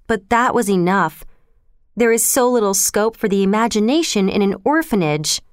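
a hint of theatrical gushing; dramatically. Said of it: "the girl said dramatically".

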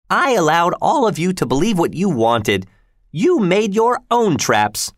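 put-on an embittered old woman throwing blame back; old Miss Havisham. Miss Havisham coldly blaming Pip, high old voice.

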